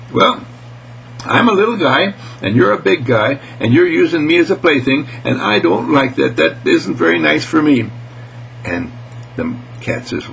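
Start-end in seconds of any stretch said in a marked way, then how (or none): 0.1-7.9 higher, earnest little mouse; small creature standing up for itself; lightly voiced mouse. Little guy tells off the big cat, higher and earnest.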